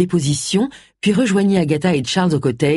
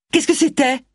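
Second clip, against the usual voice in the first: exclamation; 9 semitones higher than usual. A narrator's reading. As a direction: question exclamée dans l'aigu. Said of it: "s'exclama Allison". (exclamation aiguë)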